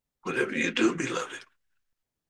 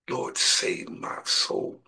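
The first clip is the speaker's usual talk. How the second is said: slow humble prayer; 4 dB quieter, much slower than usual. Shown as a demonstration. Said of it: "Pray to the Lord".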